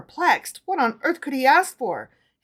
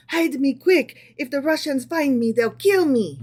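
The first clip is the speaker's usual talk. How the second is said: tremulous pleading; 4 semitones higher than usual. Acted. Fleeing emperor begs tailor to hide him, pleading in fear. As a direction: beg to be hidden, voice trembling. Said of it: "In a tremulous voice".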